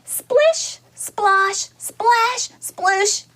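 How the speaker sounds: teacher building excitement as the duckling jumps; building splashes. Acted. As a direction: rise step by step into the plunge.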